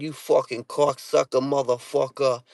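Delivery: play-acted Boston road-rage swearing; aggressive Boston outburst. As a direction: act out getting heated in a Boston accent. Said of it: "the more aggressive I get".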